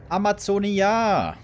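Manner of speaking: drawn-out hyped announcement; map announcement. Real, not acted. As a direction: call out the map name with flair.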